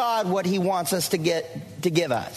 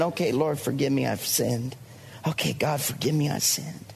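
lower, softer mock mumbled prayer; mock rote prayer; 9 semitones lower, 3 dB quieter than usual. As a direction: imitate a tired routine confession. Imitating weak believer's rote prayer.

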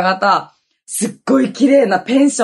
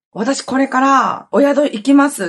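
higher, louder, drawn-out announcement; imitated earnest rescuer; 5 semitones higher, 4 dB louder, slower than usual. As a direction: voice a friend declaring she is on her way, slowly and firmly. 助けに来る女性の台詞を再現. (助けに来る女性の真似、高めにはっきり宣言)

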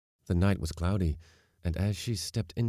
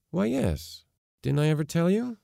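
high, lilting casual reply; offhand father; 11 semitones higher, 4 dB louder than usual. A narrator's reading. Father revealing his past to daughter, offhand. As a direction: toss it off as old news, pitched up. Father answers her astonishment lightly.

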